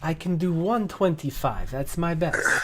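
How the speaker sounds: a merchant held by his collar, pleading; flustered merchant. Acted. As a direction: beg your way out of trouble. Sensu keeps bargaining.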